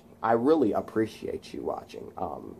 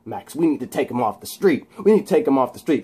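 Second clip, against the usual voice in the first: imitating unseen voice; 3 semitones higher, 4 dB louder, faster than usual. Unseen voice urging Max to act, insistent and building. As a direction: build pressure, rushing the second time. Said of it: "That's the voice".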